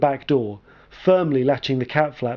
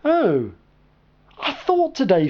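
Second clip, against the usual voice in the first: surprised murmur; 9 semitones higher, slower than usual. Acted. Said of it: "I murmured in surprise".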